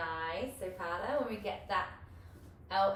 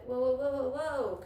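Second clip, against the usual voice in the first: louder playful whoas showing the fall; mock alarm; 4 semitones higher, 5 dB louder than usual. Shown as a demonstration. Coach shows the class a wobble with playful whoas. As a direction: show them what goes wrong. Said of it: "come down".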